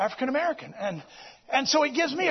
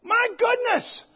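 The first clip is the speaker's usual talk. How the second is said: slow, much higher, drawn out; mock amazement; 9 semitones higher, slower than usual. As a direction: stretch it out in amazement. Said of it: "look 'em right in the eye and go".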